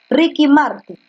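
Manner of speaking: A singer's name with stress on the first syllable of the surname. Shown as a demonstration. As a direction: say the surname as a grave word, stressing the first syllable. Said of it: "como le dicen Martin". (apellido con acento en la primera sílaba)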